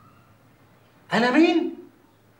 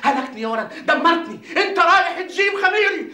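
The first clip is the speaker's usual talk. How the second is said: frantic rant; 4 semitones higher, 3 dB louder than usual. Acted. Ranting at Atiyya.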